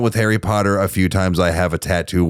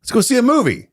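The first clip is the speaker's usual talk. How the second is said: high mock voice of the dad; dad suggesting a movie, voiced high and chipper; imitating the dad; much faster than usual. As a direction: pitch way up to play her father. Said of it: "He was like".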